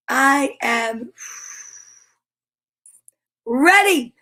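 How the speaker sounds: slow, spaced affirmations. Shown as a demonstration. Teacher leads the class in slow I am affirmations. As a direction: say each I am like a promise. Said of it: "positive statements".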